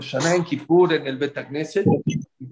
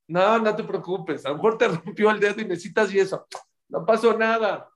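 higher, easygoing brush-off; acted reassurance; 6 semitones higher than usual. Injured dancer answers whoever said sorry, reassuring. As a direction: wave the apology away generously.

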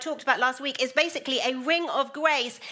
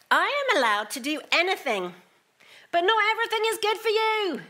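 "not" flung out much higher and louder; emphatic reading; 9 semitones higher, 4 dB louder than usual. Shown as a demonstration. Preacher reading Paul's letter aloud, punching "not". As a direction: hammer the word "not" in "but not everything is good for you". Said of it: "I don't know if he said it with that emphasis".

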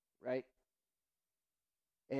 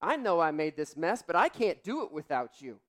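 put-on child pleading; 4 semitones higher, 6 dB louder than usual. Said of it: "He said".

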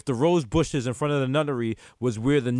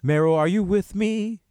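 slow, slightly raised, drawn-out call; mock séance-like check-in; 3 semitones higher than usual. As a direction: call out slowly as if he can't hear you. Mock check-in on silent co-host.

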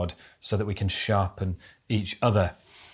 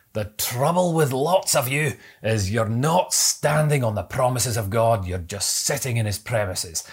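put-on Scottish accent. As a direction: quote the old Scottish preacher in his own accent. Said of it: "I hope that Scottish accent was okay".

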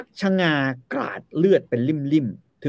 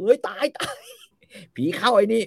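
mock startled cry; 8 semitones higher than usual. Onlookers cry out at possession.

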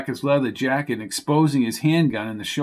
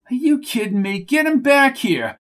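higher, rising exasperated demand; angry outburst; 9 semitones higher than usual. Acted. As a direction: snap at them to fetch Shorty. Coco angry about jockey.

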